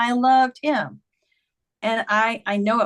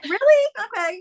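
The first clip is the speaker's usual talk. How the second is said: playing dumb; 12 semitones higher than usual. Woman answering the psychic's message, playing dumb. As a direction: feign innocent surprise, then go along. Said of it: "you kinda play dumb".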